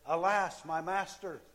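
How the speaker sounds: a frightened servant's cry; servant crying alas. Acted. Servant crying to Elisha in alarm. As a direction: call out in alarm to the master.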